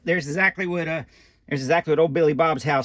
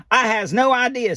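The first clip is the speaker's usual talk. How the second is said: lightly voiced Ernie; 6 semitones higher than usual. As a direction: answer like a cheerful puppet. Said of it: "says Ernie".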